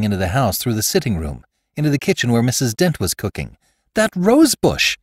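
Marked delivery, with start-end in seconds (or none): 3.9-5.0 high, slow, breathless alarm; gasped. A narrator's reading. Rebecca rushing into the kitchen, gasping in alarm. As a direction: blurt it out in a frightened gasp. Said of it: "she gasped".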